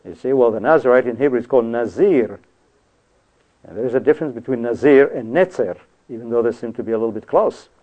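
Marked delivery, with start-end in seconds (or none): 4.6-5.1 "Nazir" said with a Z sound; pronounced with Z. Shown as a demonstration. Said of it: "One with a Z". 5.3-5.8 "Netzer" said with a TS sound; pronounced with TS. Shown as a demonstration. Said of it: "one with a T S".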